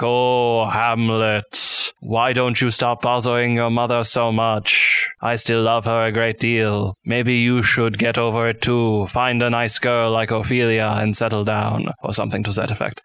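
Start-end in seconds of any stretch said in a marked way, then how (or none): 0.0-11.9 lightly voiced droning ghost; ghostly father. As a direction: intone evenly like a mild ghost. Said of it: "the ghost is like".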